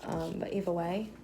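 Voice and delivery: slipping into a British accent. Real, not acted. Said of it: "talking in a British accent".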